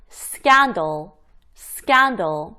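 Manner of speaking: "scandal" with hard, unaspirated c; tense the c after s in "scandal". Shown as a demonstration. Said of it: "이렇게 된소리가 난다".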